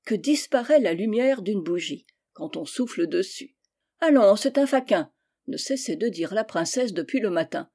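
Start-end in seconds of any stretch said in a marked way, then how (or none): 4.0-5.1 higher, louder princess's brush-off; haughty exclamation; scornful dismissal. Acted. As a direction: dismiss him with disdain. Princess dismisses a failed suitor.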